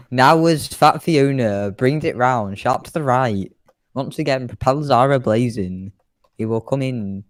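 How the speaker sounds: a hint of a show commentator; air show announcer. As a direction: introduce the plane to the crowd.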